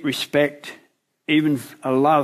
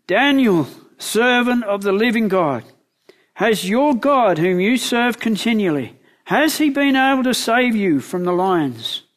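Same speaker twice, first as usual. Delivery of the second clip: raised, pleading call to Daniel; anguished call; 5 semitones higher than usual. Acted. King calling anxiously down into the lions' den, pleading. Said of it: "called out to Daniel in an anguished voice".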